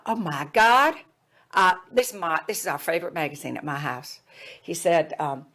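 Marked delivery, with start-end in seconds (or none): 0.1-4.2 put-on Jim Hickson, Southern accent. Student finds his family's favorite magazine, Southern accent. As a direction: imitate a Southerner's happy discovery. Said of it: "he had this Southern accent".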